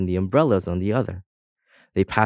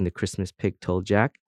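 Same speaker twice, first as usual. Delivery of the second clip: ordinary talk, nothing marked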